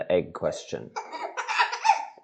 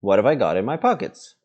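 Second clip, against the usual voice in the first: repeated question, a bit faster and louder; 2 semitones higher, 4 dB louder, faster than usual. Acted. Bilbo repeating his question to Gollum, a little louder. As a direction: press the question again, a touch louder. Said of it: "he said louder".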